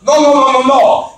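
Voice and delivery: mildly heated string of objections; mad brother-in-law. Retold or imitated. Offended brother-in-law objecting to his name, mock mad. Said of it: "he gets really mad at me".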